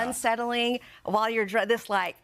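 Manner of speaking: words around a pencil; pencil in teeth. Real, not acted. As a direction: keep the pencil clenched while talking. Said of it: "drool on the Today Show".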